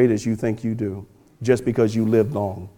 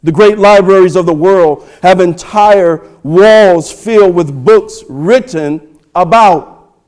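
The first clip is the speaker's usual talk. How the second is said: loud, emphatic pulpit delivery; forceful preaching; 5 semitones higher, 8 dB louder than usual. Acted. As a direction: punch out the key words to the congregation.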